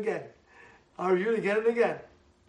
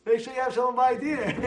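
normal talking voice

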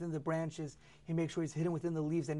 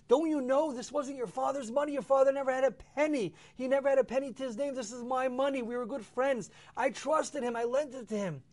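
angry protest; 8 semitones higher, 4 dB louder than usual. Acted. Rich man confronts dead friend's children.

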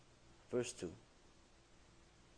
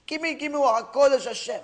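much higher, wailing mock sob of begging; crying prayer; 8 semitones higher, 6 dB louder than usual. Criminal weeping to Hashem in the synagogue, hammed-up wailing plea. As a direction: beg and wail like a man weeping his heart out. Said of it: "He's crying".

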